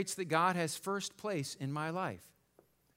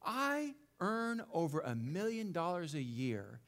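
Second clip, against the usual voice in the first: calm; 3 semitones lower, 5 dB quieter than usual. Acted. Calm rich castaway in the joke.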